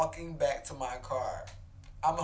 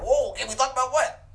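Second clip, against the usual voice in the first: higher startled "whoa" rising into a question; surprised; 7 semitones higher, 4 dB louder than usual. Acted. Storyteller caught out by "can we talk", mock-startled. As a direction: react as if caught completely off guard. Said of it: "it's all surprising".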